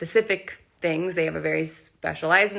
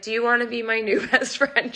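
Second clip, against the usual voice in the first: eager ask; 5 semitones higher than usual. Retold or imitated. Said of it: "I probably sounded so nuts".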